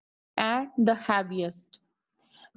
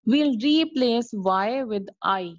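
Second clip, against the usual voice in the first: slow teaching emphasis; slower than usual. Shown as a demonstration. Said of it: "teacher stresses rule".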